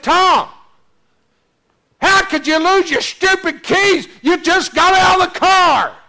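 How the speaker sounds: high, shouted scolding of yourself; panicked self-scolding. Retold or imitated. Golfer berating himself for losing keys, panicked shouting. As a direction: bawl yourself out in a hammed-up panic. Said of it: "you're gonna talk to yourself".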